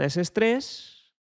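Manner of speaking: rising, tense and slow; tense high voice. Shown as a demonstration. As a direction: let the stress climb up high. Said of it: "me pone la voz en agudo".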